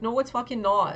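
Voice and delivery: emphatic mad denial, retold; retold angry retort. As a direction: push back loudly, replaying your annoyance. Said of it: "I actually got so mad".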